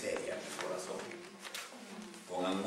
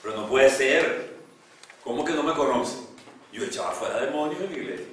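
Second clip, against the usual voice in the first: súplica desesperada; 5 semitones higher, 9 dB louder than usual. Retold or imitated. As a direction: plead like a man shut out of heaven. Rejected man pleads with Lord. (el hombre rechazado le grita a Dios, incrédulo y desesperado)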